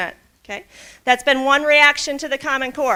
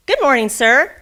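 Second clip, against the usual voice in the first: cheerful greeting; 3 semitones higher, 5 dB louder than usual. Acted. Frog boy greets people cheerfully.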